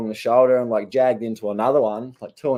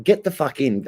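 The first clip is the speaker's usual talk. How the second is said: higher, mildly heated order; retold angry mouthful; 4 semitones higher than usual. Surfer ordering a fella out of the waves, angry. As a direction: imitate telling someone off. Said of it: "giving him a mouthful".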